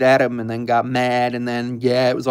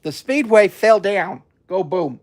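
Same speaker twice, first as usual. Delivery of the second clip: gleeful narrating; 6 semitones higher, slower than usual. Real, not acted. Amused at crash on screen.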